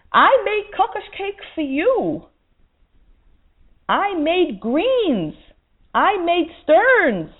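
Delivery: high, slow, emphatic reproach; divine rebuke. Acted. God answering the woman's excuse, slow and emphatic. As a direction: slowly hold up each gift as proof.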